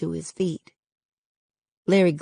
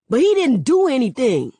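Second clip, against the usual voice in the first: high, loud pleading protest; boy shouting at the cops; 8 semitones higher, 7 dB louder than usual. Acted. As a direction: cry out that he's innocent. Boy protests police arrest.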